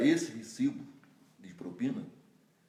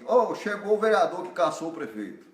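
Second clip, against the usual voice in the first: mildly raised call across a bakery; retold shout; 5 semitones higher, 4 dB louder than usual. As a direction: call it out, a bit louder and higher. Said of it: "alguém gritou lá assim".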